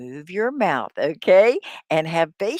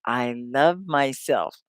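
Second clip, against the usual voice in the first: sincere affirmation; 4 semitones lower, slower than usual. Shown as a demonstration. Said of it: "You say".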